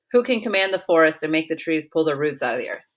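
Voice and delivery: "Who can command" rattled off quickly, the whole question read through fast; reading the line quickly without pausing; fast quote reading. Retold or imitated. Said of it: "it says".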